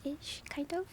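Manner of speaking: sleepy voice after a nap; groggy, freshly woken up voice; just woke up voice. Real, not acted. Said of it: "this is my, um, I just woke up voice".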